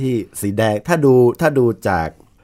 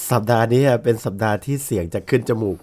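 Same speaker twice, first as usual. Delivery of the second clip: nasal voice. Real, not acted.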